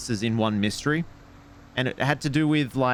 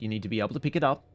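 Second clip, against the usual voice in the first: usual speaking voice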